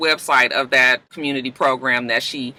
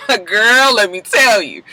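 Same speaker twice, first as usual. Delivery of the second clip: guard down; 6 semitones higher, 5 dB louder than usual. Retold or imitated. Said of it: "when the guard comes down".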